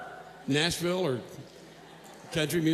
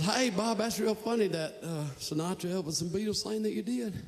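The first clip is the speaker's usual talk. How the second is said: Southern friend; 3 semitones higher, 6 dB quieter than usual. Retold or imitated. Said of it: "And he goes".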